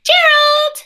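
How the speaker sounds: high call across distance. Acted. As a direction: call his name brightly. Calling friend's name.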